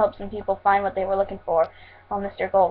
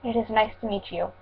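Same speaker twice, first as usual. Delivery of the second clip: softer, understated politeness; somewhat sincere; 7 dB quieter than usual. A narrator's reading. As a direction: greet politely with a touch of sincerity. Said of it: "in a somewhat sincere voice".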